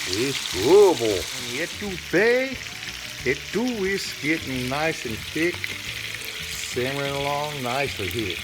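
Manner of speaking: playful put-on New Orleans accent bragging over the pot; over-the-top New Orleans accent, loud and showy; bad New Orleans accent. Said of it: "bad, bad New Orleans accent".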